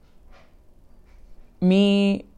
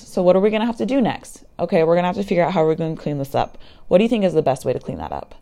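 composed parent; 2 semitones higher than usual. Acted. Parent to daughter who spilled cereal, acted composed and understanding. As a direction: model a patient, understanding parent. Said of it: "what we really would like to do as parents".

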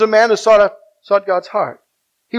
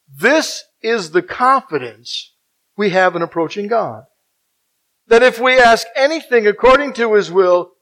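measured scripture reading with weighty pauses; slow, deliberate reading. Real, not acted. Preacher reading verse fourteen to the congregation, slowly and deliberately. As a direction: read the verse slowly, phrase by phrase. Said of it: "I'm gonna say this slowly now".

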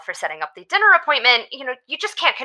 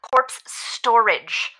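repeated slowly and clearly; 2 semitones lower, much slower than usual. Acted. Repeating the term to a confused doctor, slow and deliberate. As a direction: spell it out for a puzzled listener. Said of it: "Corpse what?".

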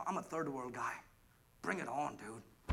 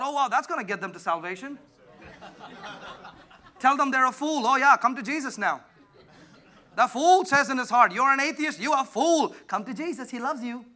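mocking with laughs, louder and higher; sarcastic laughing; 7 semitones higher, 8 dB louder than usual. Pastor mocking Christians calling atheists fools, laughing. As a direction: laugh at the silly posts.

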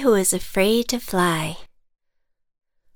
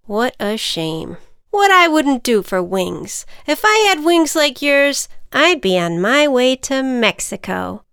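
higher, louder wistful ant; 5 semitones higher, 5 dB louder than usual. Acted. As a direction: sigh over wasted wings. Ant character voice.

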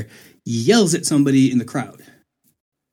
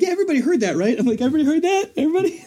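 much higher, insistent challenge; pointed question to room; 12 semitones higher, much faster than usual. Retold or imitated. Speaker challenging the council to admit they heard, much higher insistent voice.

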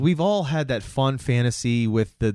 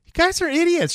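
mocking, much higher voice; scoffing teen; 4 dB louder than usual. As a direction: sneer it like a bratty teen. Sam scoffs at the rule-following family.

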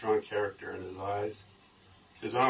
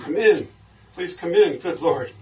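higher, louder, eager invitation; voiced father's startled welcome; urgent welcome; 8 semitones higher, 8 dB louder than usual. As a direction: usher him in with urgency.

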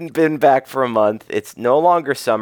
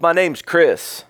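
high, very slow name drop; put-on voice; 5 semitones higher, much slower than usual. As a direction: draw out the name grandly. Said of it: "What is that voice you're doing?".

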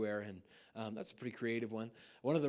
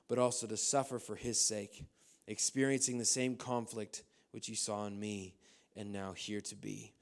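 scripture reading; 3 dB louder than usual. Acted. Reads scripture aloud.

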